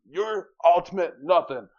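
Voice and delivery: high, loud hammed-up insults; mock furious rant. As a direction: rage like a cartoon fighter. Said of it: "He's like".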